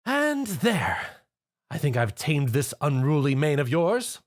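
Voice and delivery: pleased with her handiwork; cheerful. Acted. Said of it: "Rarity cheered".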